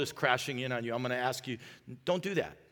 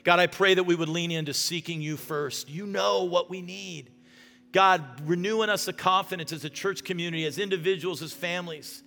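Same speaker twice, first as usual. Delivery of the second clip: prayer. Acted. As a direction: lead the room in prayer. Pastor leads congregation prayer.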